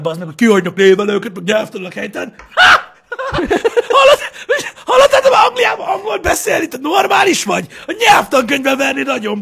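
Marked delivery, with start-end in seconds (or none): 2.5-3.9 loud high cackle; a sharp mocking laugh; burst of laughter. Real, not acted. Laughing loud at the Americans. 4.0-9.4 high, loud indignant rant; mock outraged shout. Ranting loudly about the English, mock outraged.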